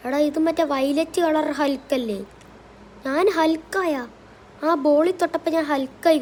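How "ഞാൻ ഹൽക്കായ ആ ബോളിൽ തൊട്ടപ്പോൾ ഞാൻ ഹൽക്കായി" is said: amazed panic. Acted. Realises he became Hulk.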